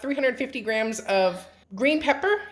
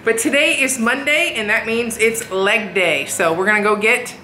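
over leaf blower; 4 dB louder than usual. Real, not acted. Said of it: "sorry about the blower in the background".

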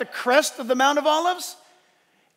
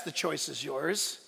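YOURS drawn out and lowered; slow down and settle low on "yours"; "yours" stretched out, quiet and low; stress on YOURS; 7 semitones lower, 9 dB quieter than usual. Real, not acted. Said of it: "I'm stressing that".

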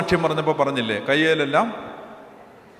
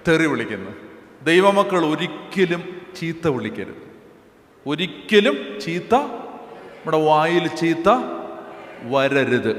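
ordinary delivery

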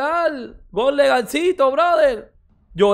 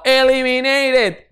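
drawn-out mock; 2 semitones higher, much slower than usual. Real, not acted. Mocking eliminated rival.

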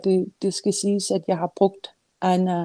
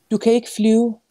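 grandmother's call, mildly raised and higher; read-aloud shout; 5 semitones higher, 7 dB louder than usual. A narrator's reading. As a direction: call it out, restrained storyteller's shout. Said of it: "råbte Anna".

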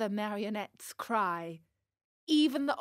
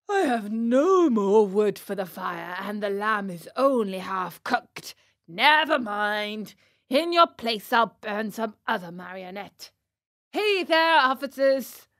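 loud grumble rising to a call; loud, lightly voiced storybook tyrant; blustering puppet master; 6 dB louder than usual. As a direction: complain loudly, then summon your guards. Fire Eater grumbles, then calls officers.

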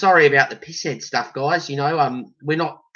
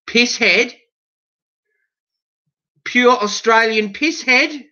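indignant disbelief; 6 semitones higher, slower than usual. Real, not acted. Reading the misprinted label in disbelief.

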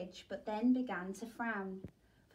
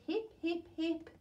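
cheering; 6 semitones higher than usual. A narrator's reading. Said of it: "They hooted".

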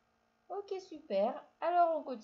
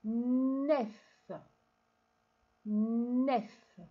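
louder, clear dictation of nef; 6 dB louder than usual. Shown as a demonstration. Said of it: "écris la syllabe". (dictée forte et articulée de nef)

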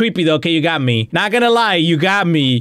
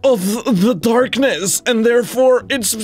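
lightly voiced pedantic commenter; know-it-all commenter voice. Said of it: "That's what you sound like".

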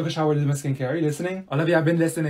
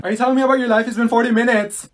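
louder, higher, fed-up rant; exasperated outburst; 6 semitones higher, 6 dB louder, faster than usual. Retold or imitated. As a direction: burst out after waiting too long. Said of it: "And then I was thinking".

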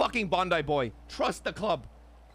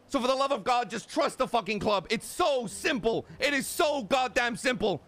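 harsh and severe; 7 semitones higher than usual. Acted. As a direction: drag out each word to drive it home. Pleading during club argument.

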